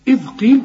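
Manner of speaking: tongue tip out on the ذ of إذ قيل; interdental dhal. Shown as a demonstration. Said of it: "طلع لسانك في الذال".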